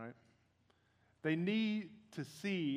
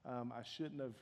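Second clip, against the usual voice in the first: soft, low, humbled fatherly apology; tender and subdued, voice dropped; gentle apology; 4 semitones lower, 6 dB quieter than usual. Retold or imitated. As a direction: quietly ask a small child for forgiveness. Father apologizes to his four-year-old.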